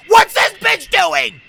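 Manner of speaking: loud, high, slow yell; alarmed shout. Real, not acted. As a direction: yell the question, stretching every word. Same question repeated as a shout.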